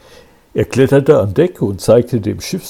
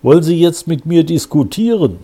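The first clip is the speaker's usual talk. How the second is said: icy; 6 semitones higher, 4 dB louder than usual. A narrator's reading. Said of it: "wurde eisig".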